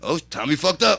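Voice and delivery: loud, delighted retold crowing; mock-gleeful holler; amused gloating. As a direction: announce it loudly, relishing the trouble. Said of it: "he's just so amused right now".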